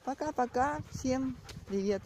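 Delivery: high, cheery sing-song hello; sing-song greeting. Real, not acted. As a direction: chirp it to the viewers.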